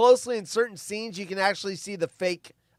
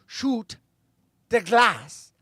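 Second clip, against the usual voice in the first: lightly acted German-accented command, a bit higher; Hans Gruber; 4 semitones higher, 5 dB louder, much slower than usual. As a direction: order it with a German accent, restrained. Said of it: "the German Hans Gruber speaks in Die Hard".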